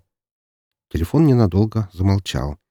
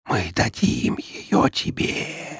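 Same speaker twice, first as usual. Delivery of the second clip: slow breathless eerie whisper; many-voiced whisper; 4 semitones higher, 5 dB quieter, much slower than usual. A narrator's reading. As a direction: hiss it right at his ear. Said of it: "раздался многоликий шёпот".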